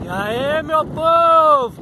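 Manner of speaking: high, loud stretched povo; drawn-out greeting. Real, not acted. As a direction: drag out the greeting. (saudação arrastada)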